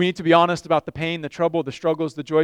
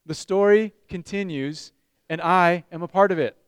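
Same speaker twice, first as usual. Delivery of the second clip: slow call-and-response. Shown as a demonstration. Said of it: "Grown-ups".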